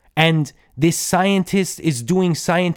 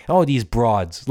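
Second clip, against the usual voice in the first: slow, lightly done New York tough-guy drawl on broads; a hint of an old New York wiseguy; 5 semitones lower, slower than usual. Podcaster mimics the actor's New York way of talking, lightly. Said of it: "like a New York guy".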